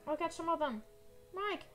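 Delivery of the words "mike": high, loud cry of no; anguished shout. Pretend. Player sees teammate in danger, anguished shout. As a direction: cry out in dismay.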